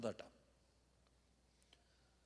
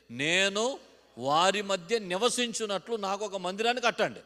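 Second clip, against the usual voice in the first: louder, higher, slower repeat of the phrase; loud repeated line; 6 semitones higher, 8 dB louder than usual. Shown as a demonstration. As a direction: belt it out as the congregation repeats. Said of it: "ఈ మాట చెప్పండి".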